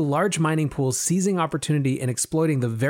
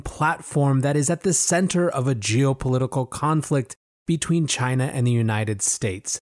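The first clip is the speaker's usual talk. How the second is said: grand rhythmic bard. Pretend. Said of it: "Gather round, friends, as I tell you the tale".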